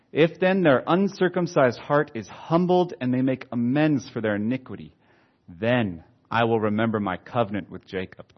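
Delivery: emphatic, measured Bible reading; preacher reading out the Word; scripture reading. Acted. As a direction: read scripture aloud with weight on key words. Reads scripture aloud.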